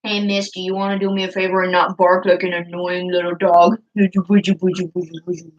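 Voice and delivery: sarcastic sweet scolding of the dog; mock-polite scolding of a barking dog. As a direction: tease the dog in a sugary voice. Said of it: "That's how I say".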